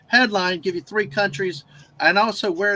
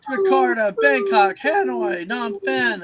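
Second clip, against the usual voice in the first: excited; 5 semitones higher, slower than usual. Real, not acted. Excited city roll call after midnight.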